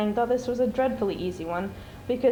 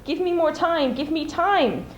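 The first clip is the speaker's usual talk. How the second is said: mock shout; 7 semitones higher, 3 dB louder, slower than usual. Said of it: "He wanted to shout out".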